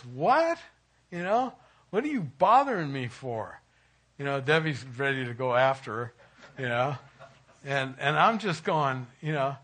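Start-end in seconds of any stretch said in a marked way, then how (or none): 0.0-3.6 sharp high indignant what, then grumbling; indignant outburst. Retold or imitated. Pastor recalling his reaction to the neighbor, indignant. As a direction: act put out, as if bothered late at night. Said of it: "my first inclination was".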